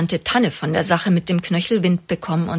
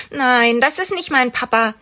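enttäuscht; 6 semitones higher, 4 dB louder than usual. A narrator's reading. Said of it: "schüttelt Oskar enttäuscht den Kopf".

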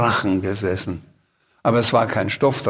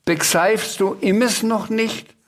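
high, slow creature voice; exasperated little dragon; 8 semitones higher, slower than usual. A narrator's reading. Dragon asks the uncomprehending Sams, slow high plea. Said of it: "sagte der Drache".

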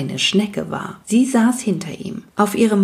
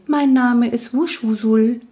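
night goblin voice; 5 semitones higher than usual. Acted. Night goblin introduces himself.

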